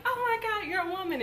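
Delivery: very high mock weepy gush; imagined teary joy. Daughter imagining mom tearfully proud, high mock weep.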